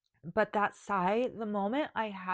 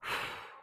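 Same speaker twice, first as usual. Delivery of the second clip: shaky sigh; 4 dB quieter than usual. Real, not acted. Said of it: "I'm choking up right now".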